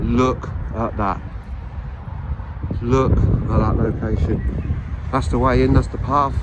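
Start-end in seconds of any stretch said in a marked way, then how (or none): 0.0-4.8 slow, loud and proud; proud showing off. Real, not acted. Presenting the grounds to viewers, slow proud announcement. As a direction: savour each word like a tour guide.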